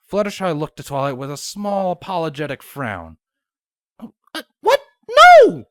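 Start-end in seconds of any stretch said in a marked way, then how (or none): 4.0-5.7 high, loud indignant no; indignant exclamation. A narrator's reading. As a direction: blurt it out in protest. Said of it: "Twilight exclaimed".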